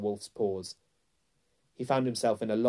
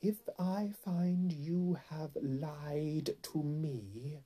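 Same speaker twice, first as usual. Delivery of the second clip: very slow, high imperious queen; menacing royal interrogation; crying out, then threatening; 6 semitones higher, much slower than usual. A narrator's reading. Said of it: "cried the Queen".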